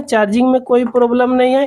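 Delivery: ordinary talk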